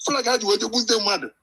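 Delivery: choppy, cutting-out phone voice; words dropping out on a bad line; breaking up phone line. Real, not acted. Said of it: "Your line is breaking anyway".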